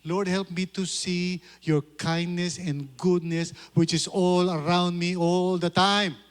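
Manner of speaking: slow, earnest prayer; sample prayer. Shown as a demonstration. Pastor modelling a prayer for the congregation, slow and earnest. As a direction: pray it slowly and sincerely. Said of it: "That's why you should pray".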